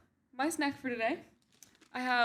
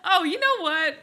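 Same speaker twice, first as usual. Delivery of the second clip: loud, high laughing protest; 8 semitones higher, 6 dB louder than usual. Real, not acted. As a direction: laugh through the complaint. Mock-offended, laughing hard.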